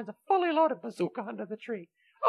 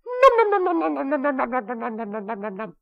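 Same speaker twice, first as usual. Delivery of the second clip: a cat chasing a bug, delighted then trailing off; gleeful munching; 3 dB louder than usual. Acted. Kitty forgetting his promise to chase a bug, gleeful then fading. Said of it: "Kitty said as he chased after the bug".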